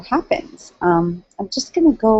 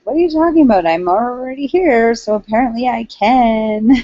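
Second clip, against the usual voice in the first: louder, much higher disbelieving comeback; indignant retort; 6 semitones higher, 4 dB louder than usual. Retold or imitated. Retelling his reply to the Canadian who said he didn't belong, indignant and raised. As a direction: throw the objection back at him, incredulous.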